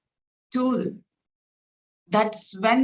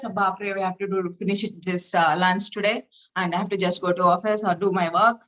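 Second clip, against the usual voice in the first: hurried, harried grumble, lower and fast; a mock-frazzled rush to get lunch done; stressed and rushed; 4 semitones lower, faster than usual. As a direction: rattle it off like a stressed cook short on time. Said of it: "in this stressful manner".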